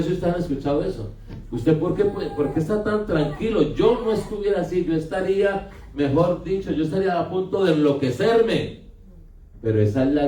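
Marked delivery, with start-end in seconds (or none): 1.5-8.8 higher, laughing mock amazement; amused disbelief. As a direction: marvel at the calm man, half laughing. People marvel at the calm believer.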